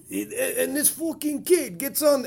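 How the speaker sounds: mock Italian accent, slow, with a laugh; half-hearted Italian accent, played for laughs; accidental Italian accent. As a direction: slip into a loose, comic Italian accent. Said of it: "why he's got an Italian accent".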